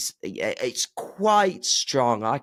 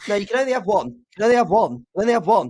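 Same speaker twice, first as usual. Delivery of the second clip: mock-strict rule; 11 semitones higher, 6 dB louder, faster than usual.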